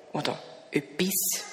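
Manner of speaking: hushed, breathy hint of something strange; mysterious whisper. A narrator's reading. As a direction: whisper it like a secret at the door. Geheimnisvolle Erzählpause. (geheimnisvoll geflüstert)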